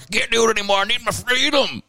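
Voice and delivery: mock the Trumpers begging for freedom. Comedian mocks Trumpers tired of lockdown, whiny high voice. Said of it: "they're like".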